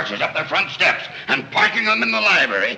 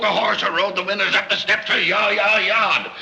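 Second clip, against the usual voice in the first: bellowing; 6 semitones higher than usual. Acted. Father bellowing at family.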